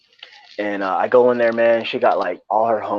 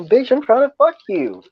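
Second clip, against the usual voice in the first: mock blunt reply; 3 dB louder than usual. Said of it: "And I was like".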